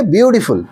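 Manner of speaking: "ब्यूटीफुल" with a slight stop after the first syllable; slight syllable break. Shown as a demonstration. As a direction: lightly separate the first beat of "ब्यूटीफुल". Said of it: "सिर्फ थोड़ा सा stoppage हुआ".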